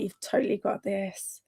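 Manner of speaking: soft whisper of support; whispered encouragement. Real, not acted. Streamer whispers encouragement to a viewer finishing a bag. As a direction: whisper it like a secret cheer.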